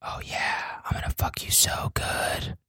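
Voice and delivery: slow mock-seductive whisper; whispered dirty talk. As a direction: breathe it out in a pretend sexy whisper. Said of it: "whispering it?".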